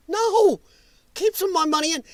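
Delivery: sudden high shout of refusal; loud outburst. Real, not acted. Streamer shouting down the plan to take his money, loud refusal.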